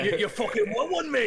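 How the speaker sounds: high, loud mocking challenge; aggressive taunt. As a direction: bark a challenge at the tree. In-character taunt.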